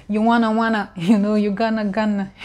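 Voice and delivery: lazy 'wanna, wanna' in a put-on American twang; 'you wanna, wanna' slurred like a wannabe American; mock American slang. Shown as a demonstration. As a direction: show off a fake Yank accent, laughing. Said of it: "looking at changing your Nigerian".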